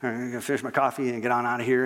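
low, rushed aside, mildly uneasy; a touch of awkward discomfort; uncomfortable. Acted. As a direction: say it quickly to yourself, wanting out. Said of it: "feeling a little uncomfortable".

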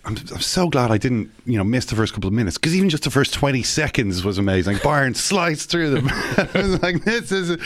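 mock excitement. Retold excitement watching match.

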